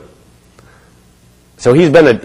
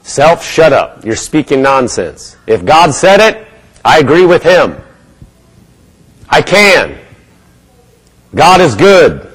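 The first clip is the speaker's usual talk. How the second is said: scolding yourself. Pretend. Preacher models commanding your own doubts, firm and slow. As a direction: tell yourself off, then declare it. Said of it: "You have to say".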